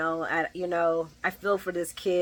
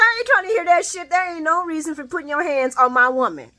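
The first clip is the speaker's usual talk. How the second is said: macho Dex; 8 semitones higher, 5 dB louder than usual. Retold or imitated. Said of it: "Dexter's like".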